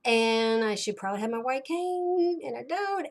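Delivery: mildly mad at yourself, rushed in places; frustrated. Retold or imitated. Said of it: "I'm frustrated, I'm so mad".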